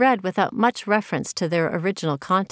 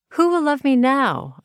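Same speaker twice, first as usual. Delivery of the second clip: a teary, raised plea; tearful; 7 semitones higher, 3 dB louder than usual. Retold or imitated. Retelling her heartbreak, a tearful plea. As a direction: ask it as if through tears, lightly. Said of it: "I wondered through my tears".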